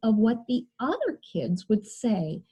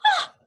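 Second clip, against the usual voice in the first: mock scream; 5 dB louder than usual. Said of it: "she screamed".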